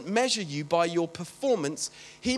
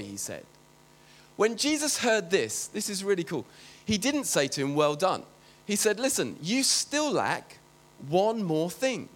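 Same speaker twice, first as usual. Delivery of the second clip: measured, lower Bible reading voice; lightly dramatised scripture reading; 3 semitones lower than usual. Acted. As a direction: read the passage to the congregation. Reads Luke passage aloud.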